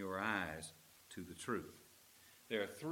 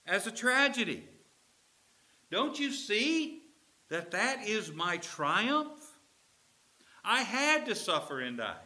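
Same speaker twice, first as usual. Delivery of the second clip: higher, louder fervent Jesus voice; Jesus pleading; 10 semitones higher, 7 dB louder than usual. Acted. Jesus urging the Emmaus disciples, higher and fervent.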